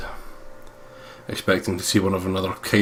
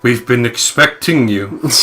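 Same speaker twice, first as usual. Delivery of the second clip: Bond villain; 3 semitones higher, 6 dB louder, slower than usual. Acted. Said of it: "nice Bond villain thing".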